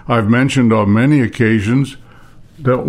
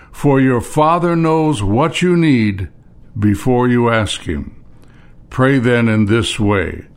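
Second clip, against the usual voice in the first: measured reading with pauses between phrases; scripture reading. Acted. Preacher reads Sermon on the Mount to congregation, measured scripture reading. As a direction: read the verses out deliberately, phrase by phrase.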